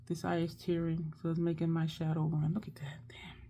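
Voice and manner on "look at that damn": hushed whisper under her breath; whispered dismay. Real, not acted. Whispering to herself as her eye tears and smears her shadow. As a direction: breathe it out in a whisper, annoyed at the smudge.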